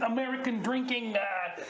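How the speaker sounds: put-on Australian accent for improv; Aussie accent. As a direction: talk like an Aussie bloke. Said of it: "Keep the accent if you like".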